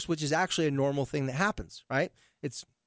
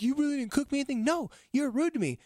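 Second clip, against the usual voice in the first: indignant; 9 semitones higher than usual. Retold or imitated. Teen and mom arguing, quoted.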